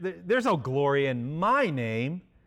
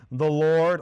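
proclaimed; 5 dB louder than usual. Acted. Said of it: "all caps".

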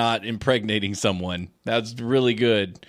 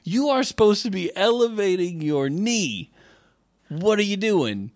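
mock scolding doctor; 7 semitones higher than usual. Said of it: "And they're like".

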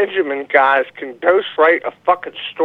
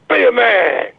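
mock ad slogan; 5 semitones higher than usual. Caller retelling old beer commercials, mock slogan cry. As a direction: mimic the commercial's punchline, stretching the last word.

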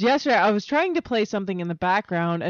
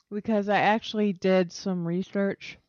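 talking around ice in mouth; mouth full. Real, not acted. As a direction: speak with ice in your mouth. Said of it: "Sorry, I have ice in my mouth".

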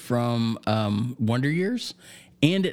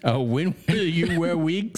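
mock German interviewer accent; slow, high-pitched German accent; 5 semitones higher than usual. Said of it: "doing a German accent".

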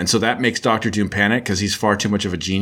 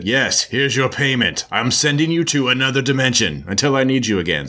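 Doctor Doom; 3 semitones higher than usual. Retold or imitated. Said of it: "right, Doom?" And he said".

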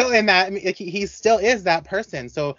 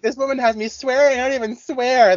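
imitating co-host; 9 semitones higher, 3 dB louder than usual. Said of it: "And you're like".

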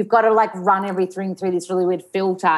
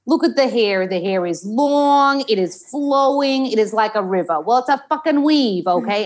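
high, slowed New York monologue; Rosie O'Donnell; 3 semitones higher than usual. Acted. Actor performing her acting-school line, New York accent. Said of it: "like a Rosie O'Donnell accent".

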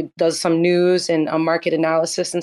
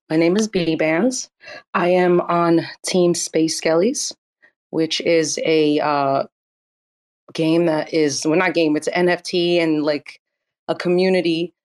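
nervous. Real, not acted. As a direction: stumble through it nervously. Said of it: "I don't know why I'm really nervous right now".

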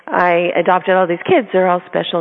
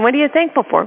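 insisting again; 6 semitones higher, faster than usual. Retold or imitated. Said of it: "No, I'm asking a question".

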